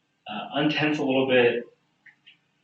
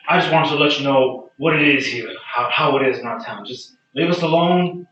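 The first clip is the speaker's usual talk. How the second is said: townsman's warning; 4 semitones higher, 5 dB louder than usual. Acted. Townsman warns off the newcomers.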